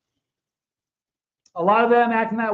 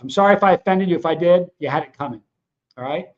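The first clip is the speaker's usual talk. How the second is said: mock apology; 3 dB louder than usual. Real, not acted. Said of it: "Sorry, a little pissed off".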